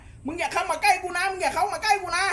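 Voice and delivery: high, teasing threat as the boat; mock boat voice. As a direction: warn the other boats off in a high mock voice. Boat voiced warning others off. (เสียงแกล้งทำเป็นเรือขู่ เสียงสูง)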